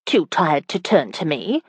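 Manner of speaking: mild put-on irritation; feigned irritation. Wife asks if he is too tired, mock irritated. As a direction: try to sound annoyed, not quite meaning it. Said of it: "trying to sound irritated".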